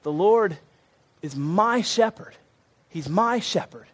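slow "is my shepherd" with "my" lifted; stress on my. Shown as a demonstration. Preacher leading the church to say it inwardly, stressing "my". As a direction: savour "my", slowly. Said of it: "Say it in your head".

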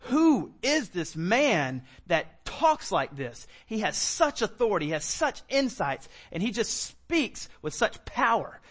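slow, heavily stressed amazement; astonished listeners. Acted. Townspeople marvel at Jesus teaching in the synagogue, astonished. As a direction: act out an awestruck crowd, drawing out key words.

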